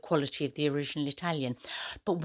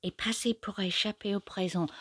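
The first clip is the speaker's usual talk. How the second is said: whispered French; 4 semitones higher than usual. Acted. Repeats French line to savor sounds.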